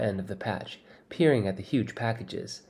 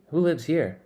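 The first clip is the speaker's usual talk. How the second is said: higher, amazed question; amazed demand; 6 semitones higher, 3 dB louder than usual. Acted. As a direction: ask it stunned, demanding an answer. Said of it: "I demand in amazement".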